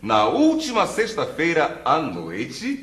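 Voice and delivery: slow, each word laid out clearly; slow emphatic answer. Shown as a demonstration. Answering the question "when" in a drill, slow and deliberate.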